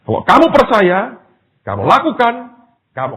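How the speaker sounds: high, loud preaching declaration; emphatic command. Acted. God answers the doubting man through the preacher, emphatic command. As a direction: proclaim it forcefully as God's word.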